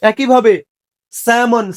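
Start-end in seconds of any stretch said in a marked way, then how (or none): 1.1-1.7 "স্যামন" with a silent L; "স্যামন" with the vowel straight into M; correct pronunciation. Shown as a demonstration. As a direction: say "স্যামন" as sa-mon. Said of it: "স্যালমন না, স্যামন".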